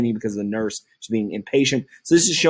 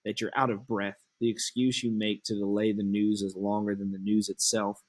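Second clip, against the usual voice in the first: impatient Juliet. Acted.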